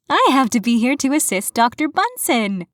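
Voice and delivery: put-on apologetic joking young woman. A narrator's reading. Erica voiced in the story.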